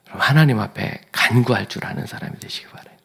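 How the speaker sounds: breathy whisper. Real, not acted. Preacher whispering a closing wish. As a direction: hush it to the congregation.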